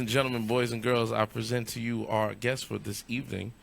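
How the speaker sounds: formal guest introduction, building to the name; show announcer. Acted. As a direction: present the guest to the crowd, drawing out the name. Hosts bringing on the guest.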